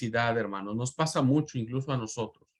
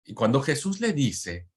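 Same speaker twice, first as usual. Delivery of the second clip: ordinary talk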